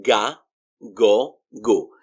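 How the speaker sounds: ga, go, gu with g as in go; "gah, goh, goo" for ga, go, gu; hard G sound. Shown as a demonstration. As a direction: model the syllables ga, go, gu. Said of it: "like the letter G in the word go".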